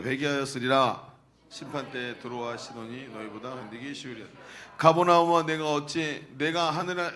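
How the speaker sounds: measured solemn Bible reading; formal scripture recitation. Acted. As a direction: read the passage aloud to the congregation.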